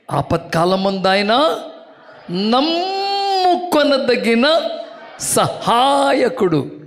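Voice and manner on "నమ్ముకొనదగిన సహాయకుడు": tearful cry. Acted. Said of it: "emotional preaching climax".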